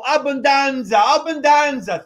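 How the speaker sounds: loud, hammed-up Italian abbondanza; mock Italian host. Mimicking the Boston maitre d' for tourists, hammed-up Italian shout. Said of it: "kinda putting on a show for".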